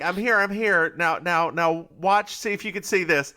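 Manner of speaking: lively acted radio call; eager calling out. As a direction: imitate someone urging others to watch. Acts out Jess on the cliff.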